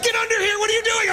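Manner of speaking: high, urgent mock wife; panicked wife. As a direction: impersonate the frightened wife calling him. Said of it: "She's like".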